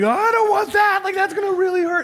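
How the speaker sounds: loud, very high mock wail; freaked-out child. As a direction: imitate a panicking kid yelling in protest. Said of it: "Freaked him out all that much more".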